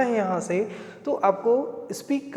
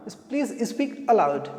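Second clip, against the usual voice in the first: slow model phrase; much slower than usual. Shown as a demonstration. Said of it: "अलाउड means क्या होता है?".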